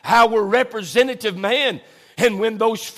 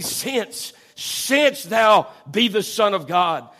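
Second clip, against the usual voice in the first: SINCE set apart, then repeated slowly; emphatic since; slower than usual. Acted. Preacher voicing the devil's challenge to Christ, emphatic SINCE. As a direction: lean hard on SINCE, drawing the phrase out. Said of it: "that word if is an emphatic".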